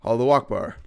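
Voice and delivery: loud Allahu Akbar; imitating a shouted cry; mock scream. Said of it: "he would scream".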